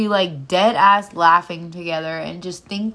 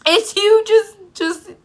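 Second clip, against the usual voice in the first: teasing high voice; 12 semitones higher, 3 dB louder, slower than usual. Pretend. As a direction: squeak it up high, playful. Teasing echo about her daughter.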